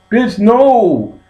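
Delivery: loud, high-pitched mock panic; panicked refusal. Man refusing his partner's advance, high panicked yelp.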